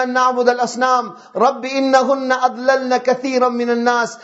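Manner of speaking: fast, fluent Arabic recitation; Quran recitation. Acted. Preacher quoting Ibrahim's prayer to the congregation, Quran recitation. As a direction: recite the verses in one running flow.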